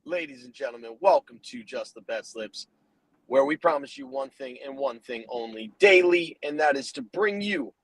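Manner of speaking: podcast announcer flourish; show-opener hype. Acted. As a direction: open the show big, punching the key words.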